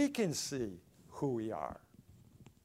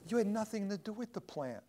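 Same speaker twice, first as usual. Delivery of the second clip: higher, firm divine correction; lightly voiced God reproving Jonah; God's voice; 7 semitones higher than usual. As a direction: speak as God setting him straight. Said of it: "He says".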